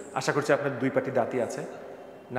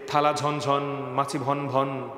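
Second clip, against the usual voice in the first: reciting a rhyme; much slower than usual. Shown as a demonstration. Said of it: "একটা কবিতা পড়েছিলাম".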